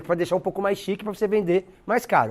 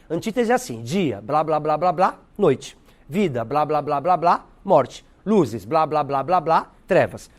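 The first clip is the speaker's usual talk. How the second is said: blá fillers set the two opposites apart; pause-filled contrast demo; 3 semitones lower, slower than usual. Shown as a demonstration. Teacher demonstrating separated opposites with filler blá. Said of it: "Por que eu faço blá, blá".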